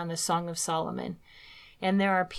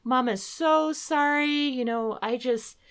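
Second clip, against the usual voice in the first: high, pleading mom apology; a mild crying plea to her son, pitched up; retold mother apologizing to her small son, tearful and high; 5 semitones higher than usual. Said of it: "I start crying, and I'm saying".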